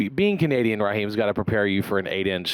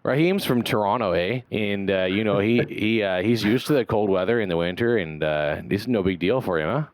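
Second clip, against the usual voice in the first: put-on lightly done Canadian accent with a tagged-on "eh". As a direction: tease the guest in a mild Canadian accent. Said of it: "That's a pretty good accent you've got".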